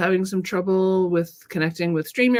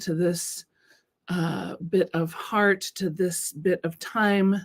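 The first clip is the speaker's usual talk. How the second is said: slow, calm settling-in voice; guided meditation; slower than usual. Acted. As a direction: ease them into the moment slowly.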